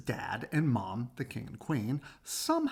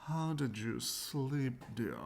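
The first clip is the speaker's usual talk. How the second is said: sweet queen; 6 dB quieter, slower than usual. Acted. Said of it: "the queen asked".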